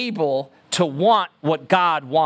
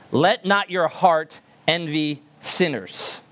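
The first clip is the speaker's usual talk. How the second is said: scripture reading; 3 semitones lower, slower than usual. Shown as a demonstration. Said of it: "our passage says".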